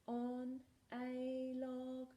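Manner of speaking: very slow unvoiced whisper; a slow whispered finish.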